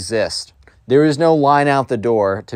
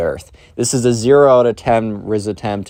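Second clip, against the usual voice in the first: ordinary talk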